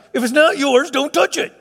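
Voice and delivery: father repeats the rule, laughing. Real, not acted. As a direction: chuckle through the house rule.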